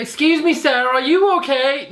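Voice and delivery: bad American accent, drawn out at the end. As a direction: play a concerned American asking after someone. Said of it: "Why an American accent?".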